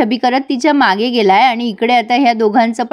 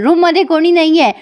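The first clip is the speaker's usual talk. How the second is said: loud shout; 5 semitones higher than usual. Retold or imitated. Yuvraj shouts at whoever is knocking on the door, loud. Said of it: "जोरात ओरडतो".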